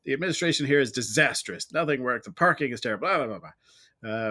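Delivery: mildly hammed-up complaint to a newcomer; exasperated grumbling. Jaded expat venting to a newcomer on a bad day, exasperated. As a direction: open with a loud groan, then grumble through the list.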